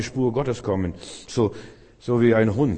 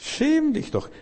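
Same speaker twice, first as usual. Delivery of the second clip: mocking taunt; slower than usual. Mocking the devil, high voice.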